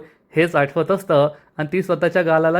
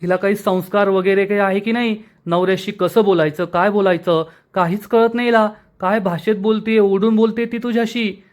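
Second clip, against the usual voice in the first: higher, raised angry complaint; aunt complaining angrily to Malhar, pitched up; 4 semitones higher than usual. Acted. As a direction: rant to the nephew about her manners. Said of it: "Revati मावशी चिडून म्हणते".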